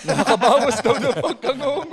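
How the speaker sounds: high laughing talk. Real, not acted. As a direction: blurt it out while laughing. Laughing at braces story. (tumatawang nagsasalita)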